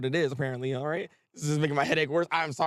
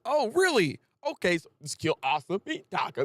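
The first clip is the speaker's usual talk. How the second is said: mocking everybody; 2 semitones higher than usual. Mocking fans who always want Asa dead, sarcastic. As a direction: parody everyone's eager tone. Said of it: "It's like".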